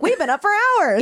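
high-pitched mock brag; put-on high voice; imitated early risers. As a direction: pipe it up high, imitating them. Imitates chirpy family early in morning.

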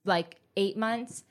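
talking around a retainer; words slurred by Invisalign; wearing Invisalign. Real, not acted. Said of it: "It's my Invisalign that I'm wearing".

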